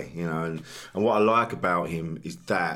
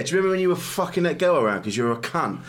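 taunting inner voice; 8 semitones higher, faster than usual. Retold or imitated. Brain taunting him.

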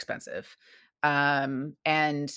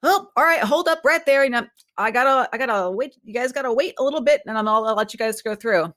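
much higher and louder, friendly worker calling out; cheerful construction worker; 8 semitones higher, 5 dB louder than usual. Retold or imitated. Guest imitating a happy road worker stopping traffic, higher and louder. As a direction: wave the cars to wait, all sunny cheer. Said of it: "and he goes".

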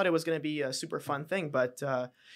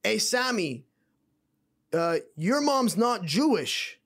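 slow, higher dopey drawl; Homer Simpson voice; 5 semitones higher, 3 dB louder, much slower than usual. Retold or imitated. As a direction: imitate a dazed bartender. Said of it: "He goes".

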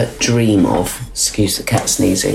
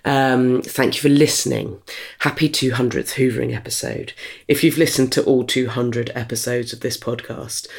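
sincere thanks; 4 dB quieter than usual. Real, not acted. Host thanking listeners at episode's end, soft and sincere. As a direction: let the gratitude come through quietly.

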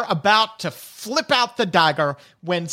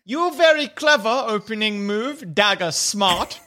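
high opening, then slowing kobold voice; grudging pidgin praise; Watcher the kobold; 3 semitones higher than usual. Acted. Watcher remarks on the dagger move, lightly voiced kobold. Game master plays Watcher.

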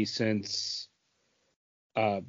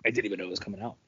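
deadpan quote; 7 semitones lower, 10 dB quieter, much faster than usual. Retold or imitated. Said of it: "I was like".

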